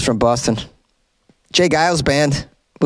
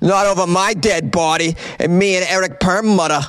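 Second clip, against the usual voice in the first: mock tough guy; 4 semitones higher than usual. Mock tough defender of Fenway.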